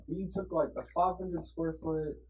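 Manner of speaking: soft, meandering teacher imitation; soothing teacher. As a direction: ramble gently like a soothing teacher. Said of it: "he has the most soothing voice".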